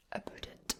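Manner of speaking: "about" said "aboot", with an oo; oo vowel in "about"; Scots about. Shown as a demonstration. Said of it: "instead of about".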